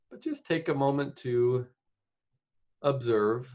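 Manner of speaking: unhurried meditation guide with long pauses; guided meditation. Real, not acted. Meditation leader settling the group into the present moment, guided meditation. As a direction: guide them gently, leaving space between phrases.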